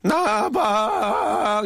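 high, drawn-out comic cry; Sa Ojeong imitation. Radio host reading a listener's gag in character, Sa Ojeong imitation. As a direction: stretch each syllable out long in a high cartoonish voice. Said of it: "사오정 버전으로".

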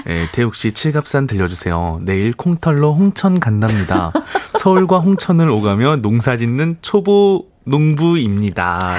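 very low, deep radio read; extremely deep bass voice. Shown as a demonstration. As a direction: drop the voice way down into the bass. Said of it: "그 톤으로 쉰 귀부님의 사연을 읽어주세요". (목소리 깔고 아주 낮은 저음으로)

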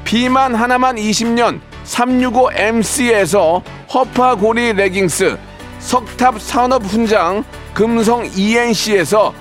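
brisk sponsor list read. Acted. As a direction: read the prizes like an ad.

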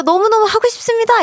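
high, cute campaign plea; eager cry. Shown as a demonstration. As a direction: demonstrate an eager appeal in a very high voice. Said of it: "이렇게 한번 크게 외쳐보세요". (높고 귀엽게 외치듯)

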